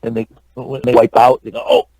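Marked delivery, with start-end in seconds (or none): 1.7-1.9 short "Oh" from onlookers; imitated wipeout reaction. People watching someone wipe out react, imitated short "Oh". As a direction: imitate spectators at a wipeout, a brief "Oh". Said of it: "kinda like that".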